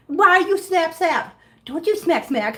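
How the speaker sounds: high, mock-stern pet scolding; high cutesy reprimand. Real, not acted. Playfully scolding a biting kitten.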